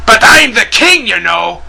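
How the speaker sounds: mock Russian-accent villain bragging; fake Russian accent. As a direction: boast as a cartoon king in a put-on Russian accent. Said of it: "fake Russian accents appeal to me".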